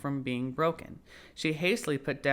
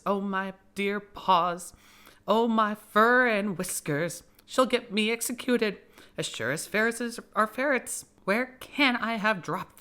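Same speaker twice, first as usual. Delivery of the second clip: higher, slow, anxious rabbit fussing; fretful rabbit voice; 8 semitones higher, 5 dB louder than usual. Acted. White rabbit panicking over lost gloves, high fretful voice. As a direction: wring your paws and wail it out high. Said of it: "heard it muttering to itself".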